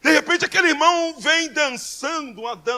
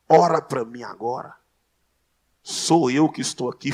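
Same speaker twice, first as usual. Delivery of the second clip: pleading brother; 10 semitones lower, 6 dB louder than usual. Retold or imitated. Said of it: "e fala assim".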